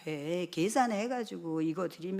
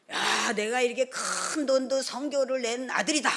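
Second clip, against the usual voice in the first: playful boast; 4 semitones higher, 4 dB louder than usual. Retold or imitated. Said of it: "저한테 항상 장난을 쳐요".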